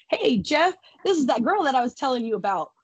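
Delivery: lightly imitated man making an introduction; mock casual call-over; calling someone over. Kirk calls Jeff over to introduce her.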